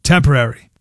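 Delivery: "temporary" set apart after a pause; stress on temporary. Real, not acted. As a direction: land deliberately on the word "temporary". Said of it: "Emphasis on the word".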